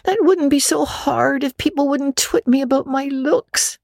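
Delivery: put-on high, quick young girl voice; a chattering imaginative orphan girl; Anne, girlish and eager. Anne complains to Marilla, high girlish voice.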